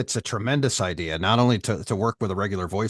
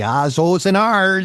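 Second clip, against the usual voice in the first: stretched Minnesota ahs and ohs, higher and louder at the end; hammed-up Minnesota accent demo; 10 semitones higher, 8 dB louder, slower than usual. Shown as a demonstration. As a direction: lean into a thick Minnesota drawl on the vowels.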